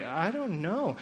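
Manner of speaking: imitating a hesitant child; lightly acted doubt; unsure kids. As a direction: give a wavering, unsure kid answer. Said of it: "and they're not sure".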